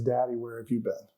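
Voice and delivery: put-on soft, hushed little boy asking; small son's voice. Son hugging his father's legs, hushed little child voice. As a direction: barely voice the child's question. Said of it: "and he says".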